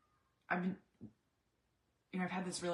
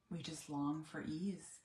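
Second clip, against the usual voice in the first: weary sigh, softer; 4 dB quieter, slower than usual. Retold or imitated. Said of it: "we'll both say".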